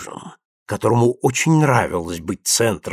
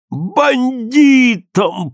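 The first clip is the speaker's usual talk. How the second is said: slow drawn-out groaning word, higher; moan; 13 semitones higher, 4 dB louder, much slower than usual. A narrator's reading. Mother reveals the shocking news, moaning slowly. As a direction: let the word sink out as a lament. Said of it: "простонала Прасковья Павловна".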